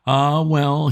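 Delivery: put-on a teary old peer letting go; old lord sighing. A narrator's reading. Old lord after wiping his eyes, wistful sigh.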